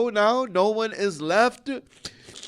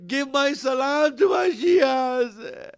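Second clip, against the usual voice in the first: slow wailing cry on "salam"; crying shout; 4 semitones higher than usual. Acted. Preacher to mourners, breaking into a wail. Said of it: "cry shout".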